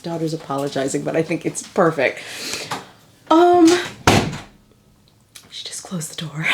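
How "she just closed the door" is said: giggling whisper about the door; whispered laugh. Real, not acted. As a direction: laugh it out under your breath. Laughing aside about daughter.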